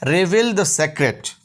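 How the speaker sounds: slow and deliberate; slow model phrase. Shown as a demonstration. Teacher slowly models English for Hindi learners. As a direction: let each word land for the class. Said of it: "teacher models English phrase".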